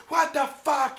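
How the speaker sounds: high, loud imitation of a rowdy football fan; mock outburst from the crowd. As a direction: yell it out like a fed-up fan in the stands. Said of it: "fans in the section were getting rowdy".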